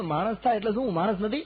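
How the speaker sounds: high, loud offended merchant; indignant merchant protesting; upset rich merchant. Acted. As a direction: play the insulted rich man. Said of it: "પેલો શેઠ હેરાન થઈ ગયો".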